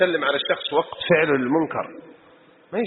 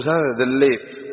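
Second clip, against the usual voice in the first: slow, haughty drawl; arrogant greeting; much slower than usual. Retold or imitated. Proud man greeting people from above, slow and haughty. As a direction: stretch "زاد ذليت" out slowly, full of pride. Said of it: "تجي بغرور وكبر".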